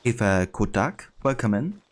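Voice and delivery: put-on slow, playful German accent greeting. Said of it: "You like my German accent?".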